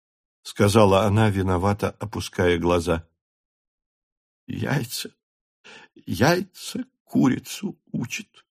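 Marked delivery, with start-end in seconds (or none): 4.5-8.4 soft, slow, tearful; choked with joy; through happy tears. A narrator's reading. The count embracing his wife, tearful. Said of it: "сквозь счастливые слёзы проговорил граф".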